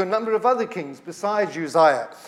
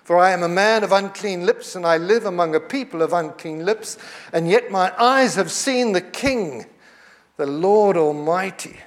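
slow, drawn-out cry of despair, barely raised; slow lament. Retold or imitated. Isaiah before God, slow mournful lament. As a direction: mourn each word slowly. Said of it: "I cried".

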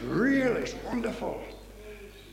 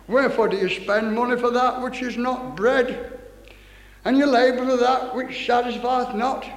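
scripture proclamation; 2 semitones higher than usual. Real, not acted. Reads scripture aloud to congregation.

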